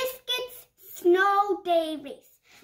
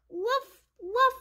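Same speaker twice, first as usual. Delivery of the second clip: high little woof woof of a puppy; puppy bark; 4 semitones higher than usual. Acted. The puppy Biscuit barking back, high happy woofs. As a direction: yip it like a happy small dog.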